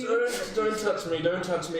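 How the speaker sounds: loud, high, repeated protest; upset rebuff. Acted. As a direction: push them away with the voice. Upset character rejects a comforting touch.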